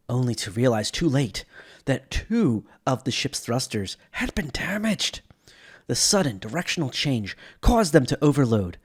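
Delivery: documentary-style narration of a starship crash; dramatic lore narration. Acted. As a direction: tell it like an epic space tragedy. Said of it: "this dramatic telling".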